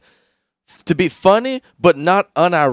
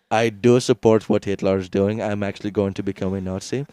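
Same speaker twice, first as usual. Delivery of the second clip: mock Indian accent; 6 semitones lower than usual. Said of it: "an Indian dude was like".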